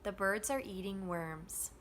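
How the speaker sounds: BIRDS, EATING, WORMS stressed, THE and ARE squeezed between; steady stressed rhythm. Shown as a demonstration. Teacher adding function words in drill, same steady rhythm. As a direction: keep three beats, light THE and ARE. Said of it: "the rhythm is going to stay the same".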